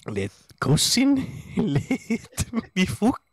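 slow high yokel cracking up; mock yokel voice. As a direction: drag it out like a dim peasant.

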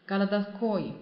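городской with stress on the final -ой. Shown as a demonstration. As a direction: reduce the first vowels of городской to a, stress -ой. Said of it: "在这个о上面".

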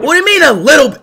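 indignant shout. Real, not acted. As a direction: yell it in disbelief. Offended by "a little bit.

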